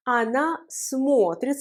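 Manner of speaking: смотрит slowly, with о as a full "o"; stressed O kept. Shown as a demonstration. Teacher explaining the vowel, смотрит with a clear stressed о. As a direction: hold a round "o" in смотрит. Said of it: "c'est pour ça qu'on prononce O".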